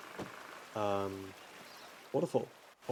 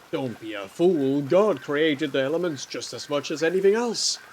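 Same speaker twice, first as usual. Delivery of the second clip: stern scolding; 4 semitones higher, 8 dB louder than usual. Acted. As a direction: scold him like a fool. Reading a scolding character line.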